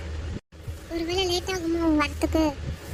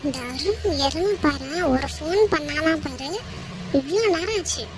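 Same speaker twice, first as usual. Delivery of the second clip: irritated. Acted. Woman fumes that Arun never called or messaged, irritated. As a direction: fume aloud, hitting the complaints harder. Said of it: "அதான் madam இப்படி கடுப்பா இருக்காங்களா".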